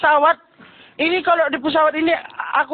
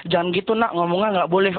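mother scolding; 6 semitones lower than usual. Retold or imitated. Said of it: "mamanya kan ngomong".

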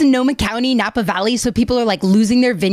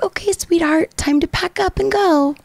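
imitating a calm partner, lightly higher-voiced; gently even retold wake-up; 6 semitones higher than usual. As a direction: act out an unruffled, affectionate nudge. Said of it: "Like, just all calm".

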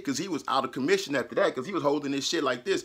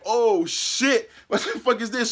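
startled; 8 semitones higher, 5 dB louder, slower than usual. Retold or imitated. Stepping out to the aftermath.

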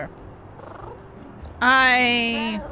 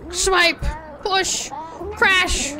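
sound effects; 5 semitones higher, much slower than usual. Acted. Acting out jar smashing.

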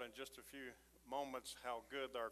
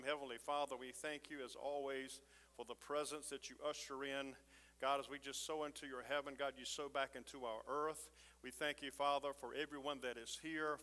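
steady, earnest prayer voice; pastoral prayer. Acted. Pastor praying over the congregation, earnest and steady. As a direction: pray over the people, one plea after another.

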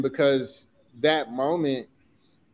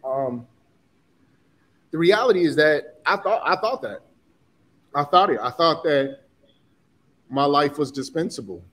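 getting emotional. Real, not acted. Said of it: "sorry for getting emotional".

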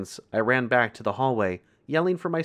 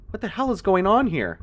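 high, loud demanding shout; loud, incredulous call; yelled; 11 semitones higher, 6 dB louder than usual. A narrator's reading. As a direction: yell it down the hallway. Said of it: "I yelled back".

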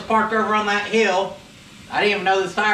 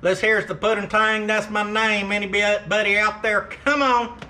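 CB trucker radio call; calling out over the CB radio; over walkie talkie; 3 semitones higher than usual. Acted. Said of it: "We got anybody out there on the old radio?".

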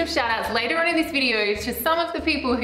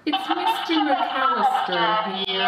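man voice changer; much slower than usual. Acted. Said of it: "Is that meant to be the man voice?".

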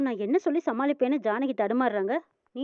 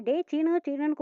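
pitched-up call across the house; 4 semitones higher than usual. Retold or imitated. Manivannan calls out to his son Seenu, raised call. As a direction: call the son's name to fetch him.

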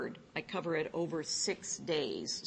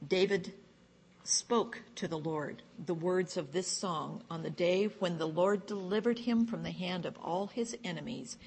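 measured, emphatic psalm reading; scripture reading. Acted. Psalm read aloud to a study group, measured scripture reading. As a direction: read the verses out with deliberate weight.

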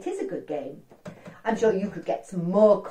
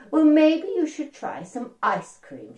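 slightly annoyed; 7 semitones higher, 6 dB louder, slower than usual. Acted. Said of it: "getting a little bit annoyed".

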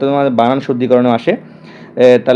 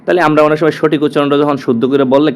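normal talking voice

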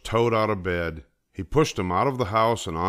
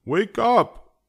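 high, loud and insistent; eager, high-pitched rousing call; excited cry; 7 semitones higher, 5 dB louder than usual. A narrator's reading. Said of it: "cried Frog".

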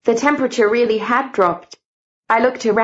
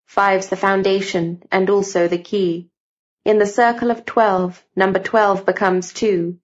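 measured, rhyming recital of a riddle poem; recited verse. Acted. Narrator reading the prophecy verse, solemn recital. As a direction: lay out the riddle beat by beat. Verse epigraph read aloud.

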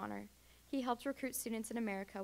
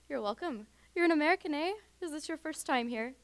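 put-on a friendly Irish old woman, higher and louder; Irish accent; 6 semitones higher, 7 dB louder than usual. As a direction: ask with a bright, loud Irish lilt. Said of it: "tolerating my horrible accent".

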